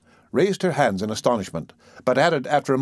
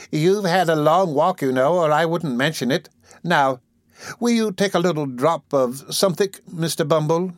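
sweet coaxing; 6 semitones higher than usual. A narrator's reading. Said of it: "with captivating sweetness".

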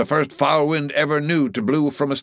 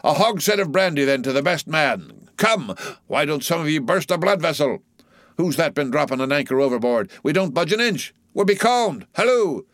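high-pitched, excited goading of rowers; rousing cry; 8 semitones higher than usual. A narrator's reading. Stubb goads his oarsmen to beat the German, rousing cry. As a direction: harangue the crew, pitch soaring on each urging. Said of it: "cried Stubb to his crew".

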